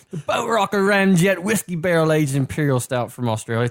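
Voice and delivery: hammed-up, poorly faked Australian accent; Australian accent, badly done. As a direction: attempt a clumsy Australian accent. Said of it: "terrible accent. I apologize".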